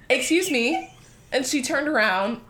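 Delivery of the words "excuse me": raised, controlled attention-getter; composed confrontation. Retold or imitated. Tapping the girl's shoulder, composed but pointed. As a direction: get her attention without laughing, pitched up.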